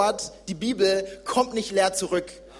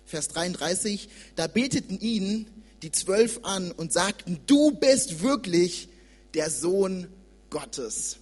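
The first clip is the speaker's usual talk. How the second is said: scripture reading; 2 semitones lower than usual. Acted. Young preacher reads Matthew to church, measured reading. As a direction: read the sea story to the congregation.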